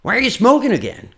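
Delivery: high, full-voice challenge; confronting question. Acted. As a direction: call out the broken promise. (cobrança aguda, de uma vez só)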